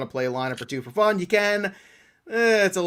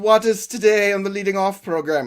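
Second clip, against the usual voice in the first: louder, higher put-on villain voice; Bond villain; 5 semitones higher, 5 dB louder than usual. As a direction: play a scheming movie supervillain. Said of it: "like, a Bond villain".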